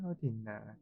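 soft hushed whisper; whispering while hiding. Real, not acted. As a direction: breathe it quietly, hiding from enemies.

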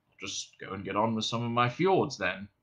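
put-on soft, low fading old man; deflated old man. A narrator's reading. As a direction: trail off, hurt.

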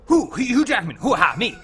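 loud, punchy mock voice-over; hammed-up hero grunts and name; Hugh Jackman. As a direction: bark out a silly catchphrase. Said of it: "I'll go".

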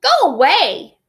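gasping queen. Acted. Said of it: "the queen gasped".

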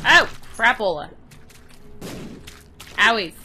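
loud, playful ouch; loud whine. Real, not acted. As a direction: yelp it out cartoonishly. Hit by enemy.

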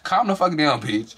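mock scolding yell. Scolding Yummy on screen, high and laughing. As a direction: tell her off through laughter.

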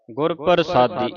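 ਗੁਰ ਪ੍ਰਸਾਦੀ run together; ਗੁਰ ਪ੍ਰਸਾਦੀ as a single connected word; read as one unit. Shown as a demonstration. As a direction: join ਗੁਰ ਪ੍ਰਸਾਦੀ with no break. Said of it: "ਇਹ ਇਕੱਠਾ ਪਾਠ ਹੈ".

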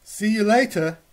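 lightly voiced gosling. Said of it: "says Goz".

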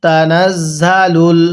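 তানাজ্জালুল with জা kept short; don't drag the জা in তানাজ্জালুল; no stretch on za. Shown as a demonstration. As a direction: correct tajweed. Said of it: "হ্যাঁ পড়ুন".

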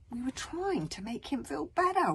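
high whimper; small, pleading excuse. A narrator's reading. Wish defends trusting Tsar, whimpering. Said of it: "whimpered Wish".

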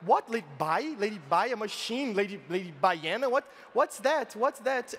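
mock puzzled crowd, questions tumbling out; baffled onlookers, pitch hopping up on the questions; acted confusion. Cows puzzling over the new contestant, mock confused.

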